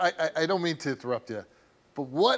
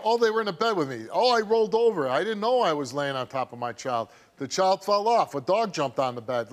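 mocking parents' excuses; 3 dB louder than usual. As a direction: rattle off the tired excuses with mild sarcasm. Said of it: "I've heard it all".

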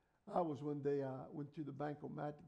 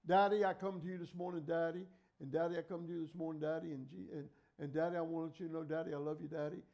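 mock repetitive prayer; 5 dB louder than usual. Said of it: "How come you say his name?".

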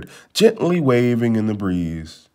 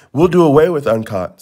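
menacing jeer; 4 semitones higher, 3 dB louder than usual. Acted. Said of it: "with a menacing jeer".

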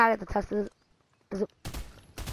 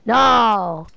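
loud, drawn-out cry of dismay; dismayed shout; 6 dB louder than usual. Real, not acted. Gamer seeing the search go wrong, dismayed shout. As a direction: wail it out loudly in frustration. Gun hunt goes wrong.

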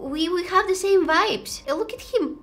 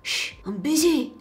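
mock dismissive shush. Shown as a demonstration. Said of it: "That's my response to people".

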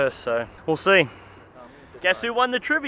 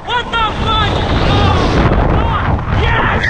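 high, loud thrill scream; screaming with real thrill; excited yelling; 10 semitones higher, 5 dB louder, much slower than usual. Real, not acted. Bungee jump launch.

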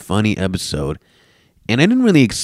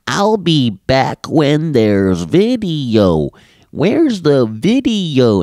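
higher, slow nagging whine; whiny commenter mock; 6 semitones higher, 4 dB louder, much slower than usual. Podcaster mocking comments demanding video whiny. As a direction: drag it out like a nag.

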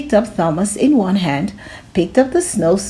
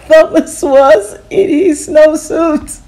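high, louder, slow punchline; triumphant reveal; 6 semitones higher, 4 dB louder, slower than usual. A narrator's reading. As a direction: land the joke with glee. Punchline after fight.

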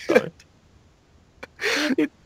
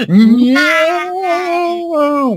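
a sharp, much higher, louder no; loud outburst; 13 semitones higher, 6 dB louder than usual. Real, not acted. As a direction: cut the countdown off with a yelp. Outburst during countdown.

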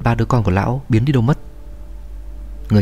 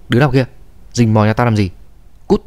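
angry shout. Acted. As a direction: snarl at the beggar boy to get out. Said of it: "Lão quát". (quát tháo giận dữ)

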